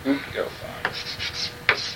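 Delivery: "Uk elthan" drawn out very slowly and softly; slow soft repeat. Shown as a demonstration.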